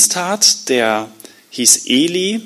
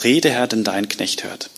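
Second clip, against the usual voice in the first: hushed night whisper to God; unvoiced whispered prayer in the dark; 4 semitones lower, 5 dB quieter than usual. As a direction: breathe the words, reverent. Samuel answers God at night.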